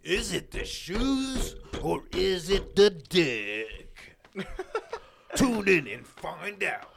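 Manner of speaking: laughing promo. Pretend. Mock trailer with laughter.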